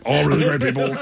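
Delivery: lightly imitated politician's sales patter; a hint of presidential boasting; Donald Trump. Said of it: "I try to sound like Donald Trump".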